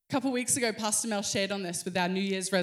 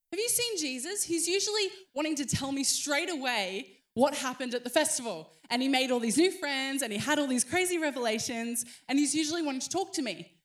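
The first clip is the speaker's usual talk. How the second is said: worried mum; 3 semitones higher than usual. Acted. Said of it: "turns to Joseph and is like".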